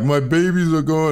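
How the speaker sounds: hammed-up distraught wail; imitated freak-out. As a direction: act out her freaking out, voice lifted. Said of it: "freaking out, like".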